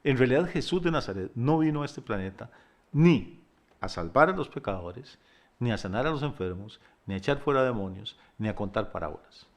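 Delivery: careful, phrase by phrase with pauses; slow and deliberate. Real, not acted. Preacher carefully breaking an unwelcome point to the congregation, slow and deliberate. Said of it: "se lo voy a decir despacio".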